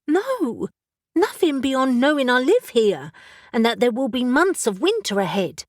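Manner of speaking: confessing odd feelings, puzzled; young witch Elle. Acted. Elle character voice.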